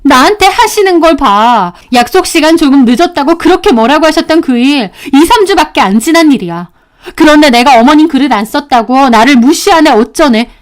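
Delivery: wife pressing her case; exasperated. Acted. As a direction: argue back indignantly. Wife argues with husband.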